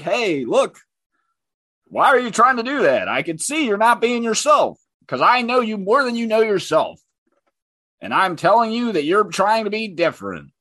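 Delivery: high-pitched mocking lecture; mock know-it-all. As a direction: imitate a presumptuous critic telling someone off. Acts out presumptuous critic lecturing.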